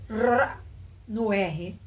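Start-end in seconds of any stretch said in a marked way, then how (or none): 0.1-0.6 isolated "r", drawn out as a Paulista would; exaggerated Paulista "r" demo; pulled Paulista R. Shown as a demonstration. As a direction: show the São Paulo "r" on its own. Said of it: "Ele já puxa".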